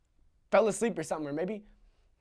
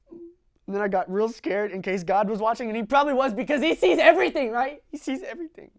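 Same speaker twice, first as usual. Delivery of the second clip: louder and higher, scared; frightened outburst; 7 semitones higher, 10 dB louder than usual. Acted. Boy afraid God saw him, panicked. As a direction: panic rising at the thought of God watching.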